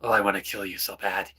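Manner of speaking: nice on top, murderous underneath; lightly voiced sweet threat; sweet menacing Tsaritsa. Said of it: "there's an undertone of".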